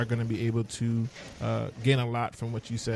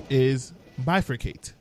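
slow announcement; slower than usual. Shown as a demonstration. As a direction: slowly announce bifurcate. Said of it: "your word of the day".

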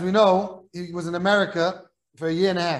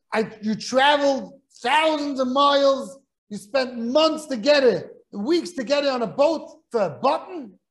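slow, louder and higher, a touch of mock outrage; incredulous scolding; 5 semitones higher, 4 dB louder, slower than usual. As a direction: drag each phrase out in disbelief. Rich man scolds over a button.

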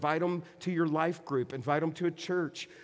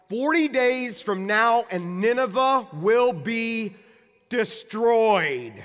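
loud, slow, higher doom proclamation; proclaiming shout; 5 semitones higher, 7 dB louder, slower than usual. Acted. Preacher acting Jonah shouting to the crowds, slow and loud. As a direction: shout it out slowly like a prophet of doom. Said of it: "he shouted to the crowds".

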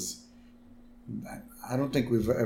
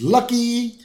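Rod Flanders voice; 12 semitones higher, 5 dB louder than usual. Retold or imitated. Rod voiced in retold scene.

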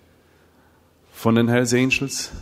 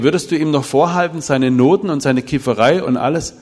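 louder and higher, pushing the question home; pressing challenge; 4 semitones higher, 6 dB louder than usual. Retold or imitated. Speaker pressing a father about his son, loud challenge. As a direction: lean in hard on him.

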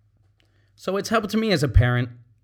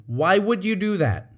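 "would" leaned on, blaming; accusatory why with "would" punched; accusing question; 4 semitones higher than usual. Shown as a demonstration. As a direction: make it an accusation. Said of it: "As opposed to".

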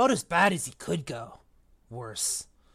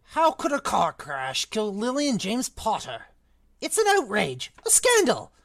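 high, indignant outburst getting louder; angry outburst; 6 semitones higher, 5 dB louder than usual. A narrator's reading. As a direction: rise to a loud pitch of outrage. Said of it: "jumping up so angrily".

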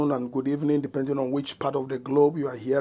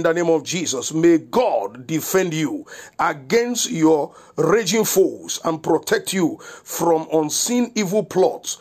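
steady prayer cadence, each line sealed "in the name of Jesus"; closing prayer. Acted. Pastor praying protection over listeners, in a steady prayer cadence. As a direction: pray it over them with conviction.

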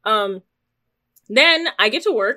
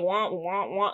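SpongeBob mumble; 5 semitones lower, 9 dB quieter, slower than usual. Retold or imitated. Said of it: "you know how on SpongeBob they're like".

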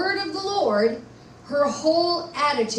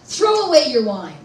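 mild demand; 6 dB louder than usual. Retold or imitated. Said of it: "he demanded".

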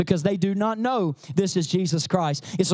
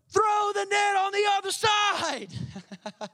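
slow, higher call to cast the net; Jesus instructing; 9 semitones higher, much slower than usual. Retold or imitated. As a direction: call the instruction across the water. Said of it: "the guy on the other shore says".

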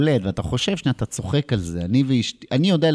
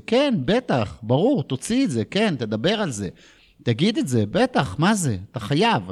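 eager wife; 5 semitones higher than usual. Retold or imitated. Wife voiced supporting eagerly.

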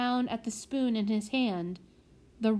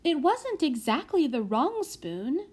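musing; 5 semitones higher than usual. Acted. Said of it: "mused Prudence".

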